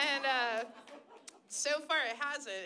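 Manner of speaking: usual speaking voice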